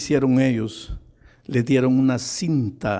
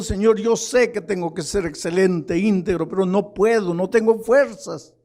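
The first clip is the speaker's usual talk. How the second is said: acted helpless plea to God, pitched high; tearful plea; 6 semitones higher than usual. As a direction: plead high, imitating a man crying out to the Lord. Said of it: "él llorando y diciendo".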